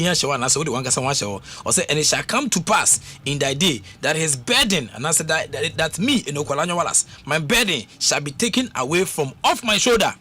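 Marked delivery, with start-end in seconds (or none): 1.9-10.1 a scripture verse claimed with rising fervour; fervent declaration. Acted. Preacher putting his own name into Isaiah, fervent and rising. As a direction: claim the verse for yourself, building up.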